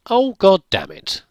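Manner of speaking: loud, drawn-out exasperated curse. Real, not acted. Player finding the machine ate his drum, loud exasperated curse. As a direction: let the frustration burst out slowly.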